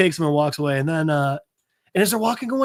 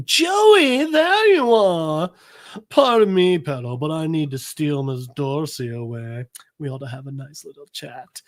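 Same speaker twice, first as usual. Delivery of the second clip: put-on stepmom. Stepmom whisking her away for a chat, affected politeness. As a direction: play the overly polite hostess stealing a guest.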